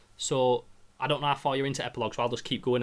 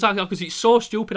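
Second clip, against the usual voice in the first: louder teary laugh; laughing and crying; 6 semitones higher, 5 dB louder than usual. Retold or imitated. Admitting to his girlfriend it's silly, laughing and crying. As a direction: laugh through the tears. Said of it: "I goes".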